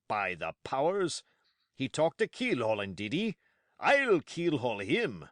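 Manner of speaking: loud, eager, rising outbursts; excited. Acted. Silver excited about running Black Dog down, loud. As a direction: fire off the phrases with glee. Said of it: "now quite excited".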